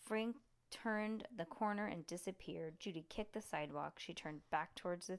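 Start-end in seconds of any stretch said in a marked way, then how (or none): none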